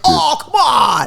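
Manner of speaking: high, dragged-out whine; disappointed kid. Retold or imitated. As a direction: imitate a child's protest at being let down. Retold child disappointed by no tanks.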